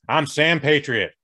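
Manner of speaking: lightly done mock American accent, a fake patriot introducing himself; a hint of a swaggering American accent; put-on American accent. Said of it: "Pay no attention to this accent".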